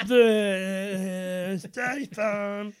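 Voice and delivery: slow, drawn-out Statham voice; lightly voiced tough guy; Statham impression. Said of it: "It was dead on".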